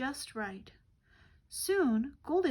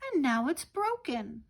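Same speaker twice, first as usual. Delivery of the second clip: tiny little voice; 3 semitones higher, 4 dB louder than usual. Acted. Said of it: "Baby Bear cried in his tiny little voice".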